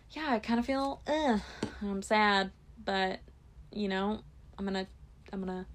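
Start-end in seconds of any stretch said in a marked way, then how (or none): 4.6-5.7 words broken by a burp; talking while burping. Real, not acted. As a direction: say it through a burp. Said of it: "oh my gosh, excuse me".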